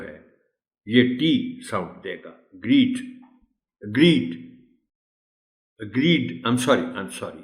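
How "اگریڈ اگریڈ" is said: اگریڈ with a ڈ ending; اگریڈ said twice, ending in ڈ; modelled pronunciation. Shown as a demonstration. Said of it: "یہ ڈی کی sound دے گا". (اگریڈ، ڈ کی آواز کے ساتھ)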